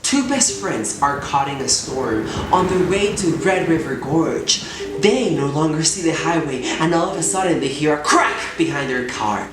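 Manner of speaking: suspenseful bilingual storyteller; theatrical narration with sudden swells; dramatic storytelling. Acted. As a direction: tell it like an adventure tale, building suspense.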